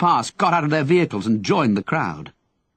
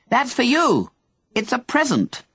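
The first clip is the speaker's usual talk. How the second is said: shout; 10 semitones higher than usual. Acted. Henry calling to the old man in the street, shouting. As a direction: shout it down from the balcony. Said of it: "Henry shouted, cupping a hand to his mouth".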